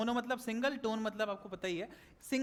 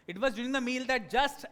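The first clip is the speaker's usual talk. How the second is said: slow, emphatic storytelling with swinging pitch; lively expressive reading; much slower than usual. Shown as a demonstration. Teacher showing students how to read a story, lively and expressive. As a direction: read it with feeling, as if enjoying it. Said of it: "ऐसे read करने की कोशिश करूंगा जिससे मेरे को मजा आए".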